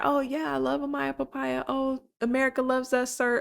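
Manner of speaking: lightly put-on gushing, poking fun at him; mocking imitation. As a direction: imitate a smitten suitor, mockingly. Mockingly voicing Zach's sudden devotion.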